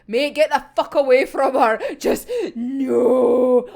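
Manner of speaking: indignant rant at the character; real outburst. Real, not acted. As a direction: shout at the screen to back off. Yelling at the villain.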